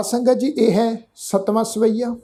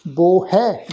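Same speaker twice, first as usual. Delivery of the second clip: slow recitation; much slower than usual. Shown as a demonstration.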